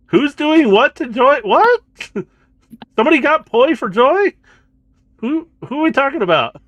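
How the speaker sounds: put-on high, loud, confused old man; deaf old man. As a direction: shout like a deaf grandpa. I gotta adopt the old man voice.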